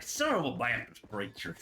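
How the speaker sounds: lightly imitated Southern accent. Quoting a friend's substitute swear, imitated Southern accent. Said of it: "real strong kind of Southern accent".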